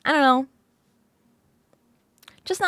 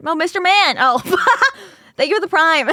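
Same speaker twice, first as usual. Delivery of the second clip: laughing; 4 semitones higher, 5 dB louder than usual. Real, not acted. Laughing thanks.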